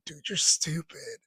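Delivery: slow, amused jab at a friend; slow teasing put-down through laughter; laughing at a friend's dumb move; amused quote. Retold or imitated. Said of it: "I'm rolling".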